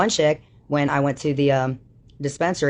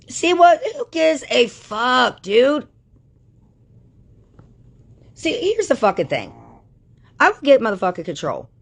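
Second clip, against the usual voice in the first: loud, much higher furious rant; angry yelling; 6 semitones higher, 3 dB louder than usual. Real, not acted. Ranting at the women she feuds with, loud yell. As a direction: shout down her enemies.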